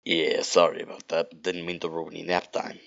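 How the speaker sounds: lightly put-on throaty Rogue; stoma voice. Rogue apologizes to Sonic for ruining his nap, stoma voice. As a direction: apologize in a throat-straining character voice. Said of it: "that stoma voice sounds like".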